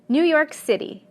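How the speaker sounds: New York CITY, weight on City; New York City, punching the final word City; stress on last segment. Shown as a demonstration. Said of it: "fall on the last segment".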